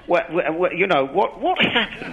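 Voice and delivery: a hint of a fussy Englishman at teatime, rising; mock posh Englishmen. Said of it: "as good Englishmen do".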